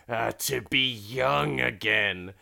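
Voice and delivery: slow, put-on old man's sigh of yearning; theatrical longing for lost youth; mock wistful longing. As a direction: draw it out wistfully, in jest. Old man longs for youth.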